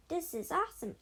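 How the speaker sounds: loving the wild ride; excited shout. A narrator's reading. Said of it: "George shouted".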